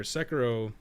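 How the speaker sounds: normal talking voice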